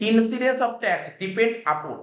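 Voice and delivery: very slow, word by word, like dictating notes; slow dictation. Shown as a demonstration. Teacher to student, dictating section five slowly. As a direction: read the law out slowly for students to copy.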